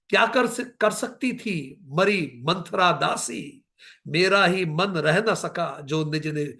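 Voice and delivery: a hint of the grieving queen in poetic recital; recited Kaikeyi lament. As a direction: declaim as Kaikeyi pleading to be heard. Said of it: "Kaikeyi कहती है उस समय".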